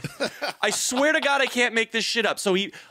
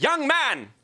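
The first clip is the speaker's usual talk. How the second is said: lightly stern father; 7 semitones higher, 4 dB louder than usual. Retold or imitated. Mock formal address to boy.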